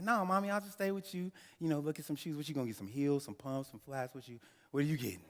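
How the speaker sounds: put-on high, eager kid voice begging to stay; pleading little boy. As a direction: son pleading with his mother to stay in the store, high and eager. Child self pleading with mom.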